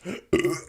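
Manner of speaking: a small real burp; burping after fizzy drink. Real, not acted. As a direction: let out a burp mid-sentence. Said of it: "I keep burping".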